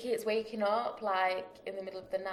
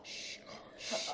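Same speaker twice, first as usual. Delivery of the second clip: soft unvoiced shushing; whisper; 5 dB quieter than usual. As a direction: shush like a toddler pretending to sleep. Baby pretending to sleep.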